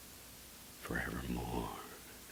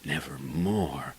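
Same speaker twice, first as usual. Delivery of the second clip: slow, drawn-out ominous word; the raven; 4 dB louder, slower than usual. Acted. Raven replying to the poet, slow ominous word. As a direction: let the bird toll the word. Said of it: "Then the bird said".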